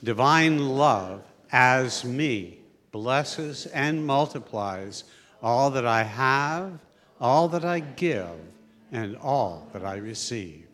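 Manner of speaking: very slow recitation in unison; congregational blessing. Real, not acted. Leader repeating blessing with congregation, slow measured chant. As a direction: lead the group slowly through each phrase. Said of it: "repeat the words with me".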